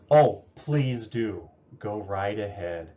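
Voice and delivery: slow, drawn-out mock approval; sarcastic spouse. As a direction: say yes but mean no. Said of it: "you're getting that mixed message".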